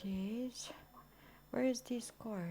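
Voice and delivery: breathless whisper, no voice at all. Real, not acted. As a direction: whisper it so no one wakes. Whispering while searching.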